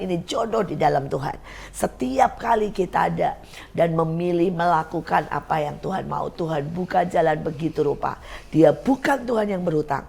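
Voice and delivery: emphatic, measured preaching cadence; earnest exhortation. Real, not acted. Host exhorting viewers to trust God for marriage, earnest preaching. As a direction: drive each repeated phrase home like a preacher.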